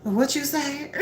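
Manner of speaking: high, startled question; can't believe what she heard; a lightly voiced flustered woman. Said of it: "she said".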